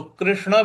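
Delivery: कृष्ण as "krishna", then "krushna"; ri or ru variant. Shown as a demonstration. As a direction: alternate ri and ru in कृष्ण. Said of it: "भी बोला जा सकता है". (कृष्ण में पहले रि, फिर रु)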